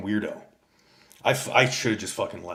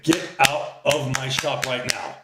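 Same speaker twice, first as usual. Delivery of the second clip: higher, slow, drawn-out put-on voice; a hammed-up imitation of the shop owner's order; mock sassy woman; 4 semitones higher, 4 dB louder, slower than usual. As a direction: drag it out like an offended shop girl. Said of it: "Like a fucking black girl".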